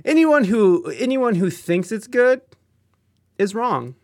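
hammed-up indignant pronouncement; mock outrage. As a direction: playfully condemn the pineapple fans. Mock outrage at pineapple on pizza.

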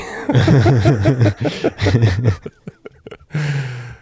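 loud, high burst of laughter; hearty laugh. Real, not acted. Host cracking up at his own middle-name story, hearty laugh. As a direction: crack up and trail into a sigh.

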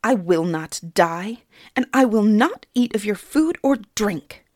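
put-on girl defies the fairy king, spitting her refusal; defiant spit. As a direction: spit the refusal back at him. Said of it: "Suni spat defiantly".

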